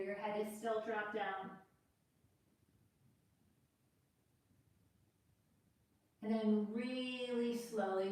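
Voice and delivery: unhurried yoga cueing with long pauses; guided yoga instruction. Acted. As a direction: guide the class gently through the pose, leaving space to breathe. Leads a yoga practice.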